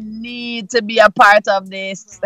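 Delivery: high-pitched "what", then drawn-out eagerness; excited disbelief. Retold or imitated. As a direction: re-enact an amazed must-join reaction. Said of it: "and I'm like".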